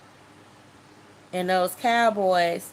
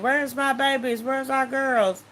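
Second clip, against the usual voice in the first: higher, held-back mock cry; pitched-up, understated retold wail; retold scream; 4 semitones higher than usual. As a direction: imitate parents calling for lost children, without the volume. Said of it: "hear my mom screaming and my dad screaming".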